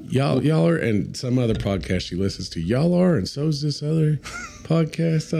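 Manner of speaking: high imitation of mom; mom's voice. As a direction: pitch up, lightly mocking. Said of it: "And then she said".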